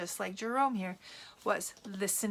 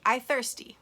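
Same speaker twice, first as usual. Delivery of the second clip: put-on child's plea; 3 semitones higher, 7 dB louder than usual. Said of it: "you say".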